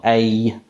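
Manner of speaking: "a" as a gliding "ay"; diphthong demo. Shown as a demonstration. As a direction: draw "a" out from eh toward ee. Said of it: "Becomes a diphthong".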